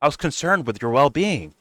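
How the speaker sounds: a hint of a wounded whine; whiny mock innocence. Hosts pretending innocence to Nick, in a light mock whine. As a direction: play the innocent victim lightly. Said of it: "They're gonna be like".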